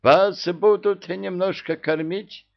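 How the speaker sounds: high, booming inhuman voice; inhuman roar. A narrator's reading. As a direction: roar it like a monster through a loudspeaker. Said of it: "громовые раскаты Мурзика".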